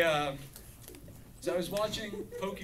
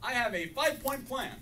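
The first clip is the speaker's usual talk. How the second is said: put-on higher, eager kid daughter; 7 semitones higher than usual. Daughter tells dad her plan, lightly higher kid voice. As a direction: pitch it up like a keen daughter pitching her plan.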